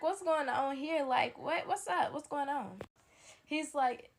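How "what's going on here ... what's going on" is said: higher and louder with a disbelieving laugh; shocked laughing question. Retold or imitated. Catching her friend in his bed, disbelieving laughter. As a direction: laugh in disbelief as you demand answers.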